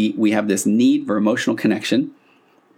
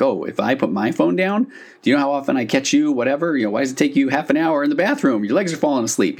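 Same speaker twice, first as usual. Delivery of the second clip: higher, quicker, needling comeback; defensive retort; 4 semitones higher than usual. Retold or imitated. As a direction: throw it back at your partner, stung. Partner bickering back about phone use.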